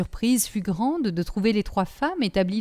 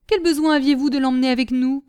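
quick, raised, indignant question; scolding; 5 semitones higher, 6 dB louder, faster than usual. A narrator's reading. Nanon blaming the brigadier for taking the boy, scolding. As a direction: scold him in a loud, fast burst.

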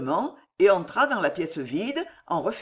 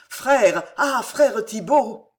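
flustered protest; 3 semitones higher, 5 dB louder, much slower than usual. A narrator's reading. Lubin protests at the monk's rebuke.

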